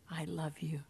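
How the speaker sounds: "I love you" breathed out as a soft unvoiced whisper. Jesus whispering to mankind, fading into a whisper. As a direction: let it fade into a whisper. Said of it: "saying to mankind".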